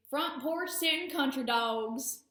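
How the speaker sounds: slow, lightly put-on Southern twang on the phrase; country Southern accent. Trainer describing the ideal dogs, in a playful mock Southern accent. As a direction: drawl it like a porch-sitting country talker, half joking. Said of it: "Excuse my horrible accent".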